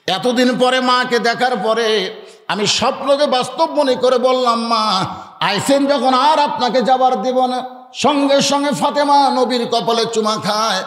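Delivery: lilting, fervent preaching; impassioned sermon storytelling. Acted. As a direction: tell it with rising devotional fervour. Sermon story in raised chanting voice.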